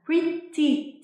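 "Pretty" with a crisp true t in the middle; British T. Shown as a demonstration. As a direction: say "Pretty" the British way, t fully sounded. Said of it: "tiếng Anh Anh thì người ta sẽ thường hay phát âm".

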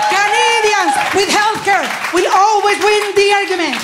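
high, proud declaration; triumphant proclaim. Acted. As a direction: proclaim it as a victory. Punchline proclaimed.

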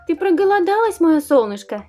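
sweet, fussing mom voice; doting mother. Acted. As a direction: coo at the baby like a mother. Mother role talking to doll.

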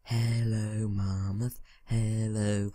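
drawn-out, level-toned hello; singsong greeting. Pretend. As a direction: call out playfully, stretching the vowels. Calling to mammoth in singsong.

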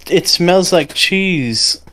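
a hint of a little kid, unhurried; ten-year-old kid. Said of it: "playing as, like, a ten-year-old kid".

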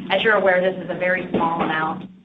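normal talking voice

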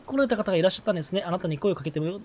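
a lightly voiced genteel girl, reading her lines; polite young lady. Reading the villager Doremi's polite greeting, lightly voiced lady. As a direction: read it like a refined little miss. Reads villager dialogue aloud.

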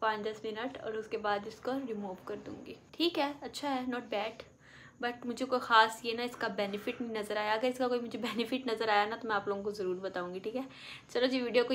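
face covered by wet mask; through a sheet mask. Real, not acted. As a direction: lips moving in mask hole. Seen 1: White sheet mask covers face throughout; lips showing through mouth opening.

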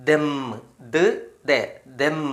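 "ദം" broken into ദ്, then ദേ, then blended back to ദം; teacher blending sounds for young pupils; sounding out letters. Shown as a demonstration. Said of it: "എന്താ വായിക്കുക?".

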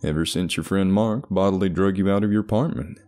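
earnest, encouraging doctor; therapist voice. Acted. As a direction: coax him gently but firmly. Doctor persuading patient.

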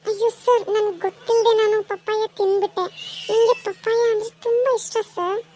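a woman realising her mistake; dismayed mother. Acted. (ಗಾಬರಿಯ ಧ್ವನಿ)

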